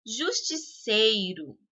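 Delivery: Justiceiro slowly, with CEI drawn out; stress on third syllable. Shown as a demonstration. Teacher demonstrating the strongest syllable, stress on CEI in Justiceiro. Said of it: "a sílaba sei é a de maior intensidade".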